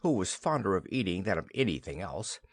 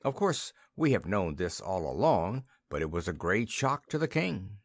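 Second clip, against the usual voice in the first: ordinary delivery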